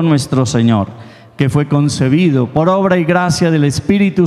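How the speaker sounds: steady, measured prayer recital; recited creed. Acted. Priest leads the congregation in the Creed, steady recital. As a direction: lead the congregation through the creed.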